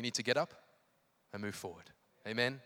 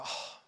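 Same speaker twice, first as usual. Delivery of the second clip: wistful sigh; 9 dB quieter than usual. Acted. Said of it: "you go".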